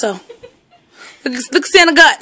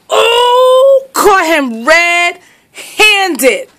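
mock crying; 2 semitones higher, much slower than usual. Real, not acted. Owner finds dog killed Santa toy.

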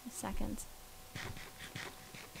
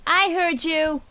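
indignant; 6 semitones higher, 6 dB louder, slower than usual. Real, not acted. Retort to insult.

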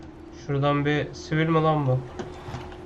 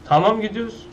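eager go; 6 semitones higher, 4 dB louder than usual. Real, not acted. Car ready, sets off eagerly.

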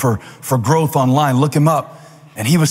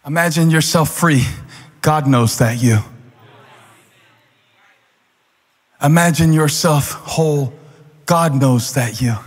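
gentle guided imagining. Real, not acted. Guided imagining, slow pauses.

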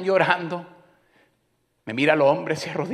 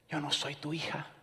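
soft hurt reply; 10 dB quieter than usual. Retold or imitated. Wife answers his harsh tone.

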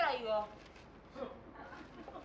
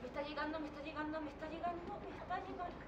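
fading trance murmur; 6 dB quieter, faster than usual. Acted. Psychic receiving a message.

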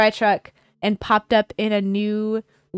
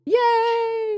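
high, bright cheer; excited cheer; 12 semitones higher than usual. Real, not acted. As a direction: cheer like a fan. Cheering after a joke.

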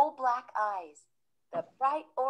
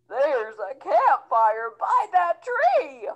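a lightly voiced cold snowman, louder; shivering snowman; 3 semitones higher, 7 dB louder, slower than usual. Snowman shivering, asking the children for warmth, lightly voiced. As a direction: call it out through the chill. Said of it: "Sneezy the snowman shivered".

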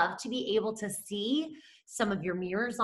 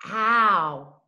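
called-out sound; 2 semitones lower, 5 dB louder than usual. Shown as a demonstration.

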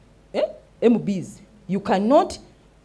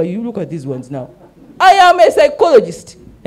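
retold scolding; 6 dB louder than usual. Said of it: "ne ngamba".

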